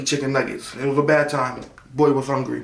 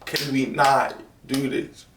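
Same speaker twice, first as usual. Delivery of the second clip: tearful apology to mom; mock tearful. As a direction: imitate crying while apologizing. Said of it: "in tears".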